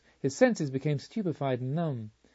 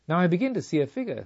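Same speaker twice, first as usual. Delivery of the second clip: quick, higher and louder with eagerness; rushing out the words as the figure appears; eager discovery, lightly raised; 4 semitones higher, 4 dB louder, faster than usual. Acted. Carmelita eagerly watching the vision.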